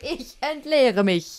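slow, drawn-out mock moan; mock climax line. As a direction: stretch it like a climax. (gedehnter gespielter Ausruf)

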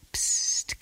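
whispered shush; hushing. A narrator's reading. Servant shushes the grandmother during the speech, hushing. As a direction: shush her softly.

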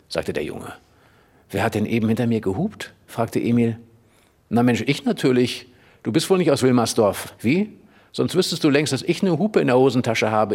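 lively read-aloud storytelling; story narration. A narrator's reading. Reader narrating Emil's chase through Berlin, lively read-aloud. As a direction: tell the boys' chase like a children's book. Reads Emil und die Detektive aloud.

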